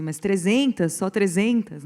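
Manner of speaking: colleague's indignation, lightly imitated; mild mock indignation. Quoting colleague Jéssica on the figure of three hundred, mildly indignant. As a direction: protest it with a touch of indignation. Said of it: "quando ela fica indignada, diz assim".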